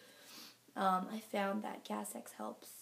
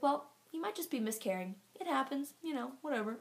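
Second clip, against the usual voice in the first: lightly imitated offhand doctor, pitched up; mock-casual dismissal; dismissive doctor; 4 semitones higher than usual. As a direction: shrug the bad news off.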